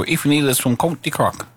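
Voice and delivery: put-on a deliberately poor Cork Irish accent. Radio host introducing a Cork singer in a bad Cork accent. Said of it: "That was a rubbish accent".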